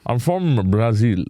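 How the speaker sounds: BRAZIL said slowly, dropping low, as the Brazilian pronunciation; showy Brazilian pronunciation. Shown as a demonstration. Insisting to co-hosts on his roots, showy pronunciation of BRAZIL. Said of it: "that is how it's pronounced".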